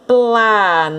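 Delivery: planeta broken into slow beats, pla, ne, ta; syllable by syllable. Shown as a demonstration. Teacher giving another example of separation, planeta split into pla, ne, ta. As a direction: draw out each syllable of planeta with a gap between. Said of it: "Se eu separar".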